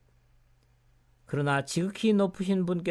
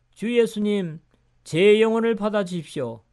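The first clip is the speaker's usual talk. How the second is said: raised, louder pleading prayer; higher, fervent cry to the Lord; praying aloud; 4 semitones higher, 7 dB louder than usual. A narrator's reading. Stephen to the Lord while being stoned, fervent prayer. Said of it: "그는 이렇게 기도하였다".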